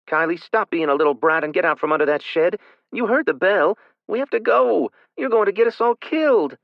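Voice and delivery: high, loud, furious big-sister yell; furious scolding. A narrator's reading. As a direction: let her have it. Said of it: "she'd let you have it".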